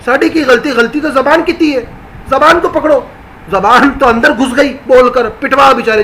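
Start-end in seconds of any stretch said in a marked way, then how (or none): 0.0-0.7 mock pleading legs. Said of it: "ٹانگ بول رہے ہیں".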